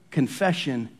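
usual speaking voice

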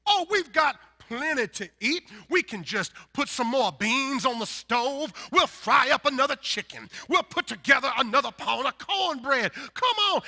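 hammed-up Southern host insisting; Southern politeness back-and-forth. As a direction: act out both sides of Southern hospitality. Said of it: "what people do in the South".

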